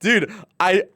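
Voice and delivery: real pain from a sore throat; strained. Real, not acted. Streamer hurting after singing. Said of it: "singing is not a good idea".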